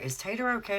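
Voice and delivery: high-pitched imitated granny question; mock concerned granny. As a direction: lightly voice a fretting granny. Voicing worried Granny's question.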